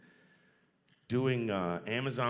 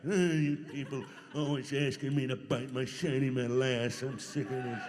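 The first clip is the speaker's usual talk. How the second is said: lightly voiced cranky robot, a bit louder, with a laugh; grumpy old robot; 2 semitones higher, 5 dB louder than usual. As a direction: grumble it like a washed-up old star, half laughing. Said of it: "I hope I never turn into that guy".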